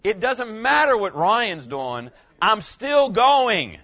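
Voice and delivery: slow, loud, emphatic declaration; a pastor's mock yell, drawn out for emphasis; retold yell. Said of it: "And I yelled".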